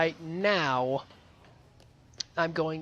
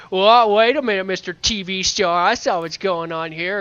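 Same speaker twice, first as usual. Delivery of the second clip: accusing character voice; 2 semitones higher, 7 dB louder than usual. Retold or imitated. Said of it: "he's like".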